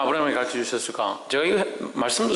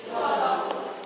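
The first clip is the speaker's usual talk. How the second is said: whispered; 8 semitones higher, 4 dB quieter, slower than usual. Shown as a demonstration. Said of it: "따라합시다".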